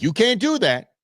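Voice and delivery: high squeaky objection; high mock indignation. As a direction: squeak it out in protest.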